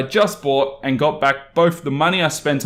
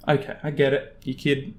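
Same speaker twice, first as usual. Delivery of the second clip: usual speaking voice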